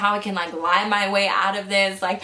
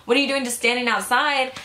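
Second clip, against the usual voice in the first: higher-pitched imitation of a scolding mom; retold mock yell; 4 semitones higher than usual. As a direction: mildly mimic mom yelling, voice raised in pitch. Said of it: "she started screaming at me".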